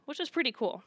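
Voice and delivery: whispered aside, barely voiced. Real, not acted. Speaking to the congregation, a whispered aside. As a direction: drop to a breathy whisper mid-thought. Aside under her breath.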